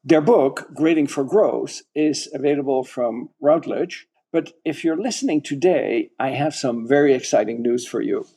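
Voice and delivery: measured scripted announcer delivery; podcast promo read. Real, not acted. Host promoting guests' book and reading event, scripted promo read. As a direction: read out the closing plug for listeners.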